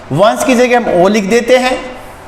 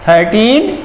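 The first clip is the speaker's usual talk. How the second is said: slow read-out; slower than usual. Shown as a demonstration. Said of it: "तो ये बना".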